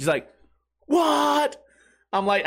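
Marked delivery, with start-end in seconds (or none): 0.8-1.6 high-pitched, exaggerated disbelief; mock astonishment. Drunk buddy told he has cash, hammed-up astonishment.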